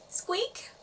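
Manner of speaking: high little squeak, rising; one silly squeak like a mouse. A narrator's reading. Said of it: "She sounded so silly".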